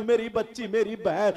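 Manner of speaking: soft, gentle plea to the sisters; a softly spoken fatherly appeal; tender address. Real, not acted. Preacher tenderly addresses women.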